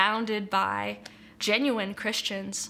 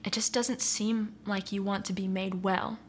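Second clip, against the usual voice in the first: kindest gentle tone; 3 dB quieter than usual. Retold or imitated. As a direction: let the hard truth land gently. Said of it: "in the most kindest tone, in the gentlest voice".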